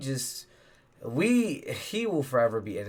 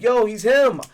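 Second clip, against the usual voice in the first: hyped fan; 10 semitones higher, 10 dB louder, slower than usual. Retold or imitated. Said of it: "some people are like".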